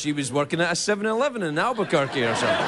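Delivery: ordinary delivery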